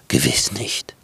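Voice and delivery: low, whispered wolf; the wolf denying it in a low whisper; sly wolf. Acted.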